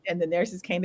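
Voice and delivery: ordinary delivery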